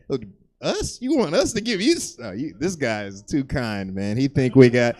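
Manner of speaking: incredulous broke guys. Retold or imitated. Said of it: "we'd be like".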